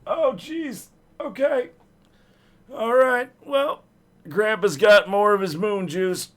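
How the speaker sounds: a grandpa groaning over his bad back; old geezer voice. Streamer voices an old geezer from the wheel, grumbling. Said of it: "I'm an old geezer".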